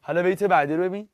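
ordinary talk, nothing marked

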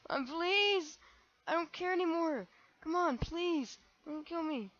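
high, loud hammed-up pleading; mock begging. Gamer begging an attacker not to kill him, high and hammed-up. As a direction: beg for your life, overplayed.

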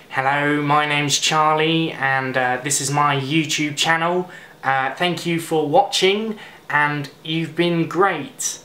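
attempted nasal YouTuber impression; slow, nasal, mild imitation of a British vlogger; Charlie McDonnell. Vlogger greeting channel viewers, attempted nasal impression. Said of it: "trying to do a Charlie McDonald accent".

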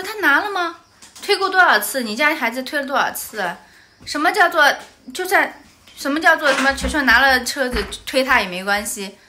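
pressing the other mother hard; retold angry quarrel. 继续和对方妈妈吵架. (气愤地连连质问)

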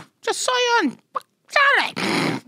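high, incredulous protest to mom; mock exasperation. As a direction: protest in a high-pitched whine of disbelief. Exasperated reply to mother's text.

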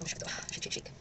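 whispered to herself. Real, not acted. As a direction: breathe it out softly. Whispering while drying eyeliner.

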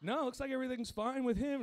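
high-pitched put-on doctor voice; high, even voice of a doctor on a call; imitating the doctor. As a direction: explain it as a doctor, pitched well up. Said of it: "He's like".

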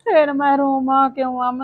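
hammed-up sob through the question; tearful complaint. Mother to daughter Aman about her husband, tearful hammed-up complaint. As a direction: whine it out like a wronged mother.

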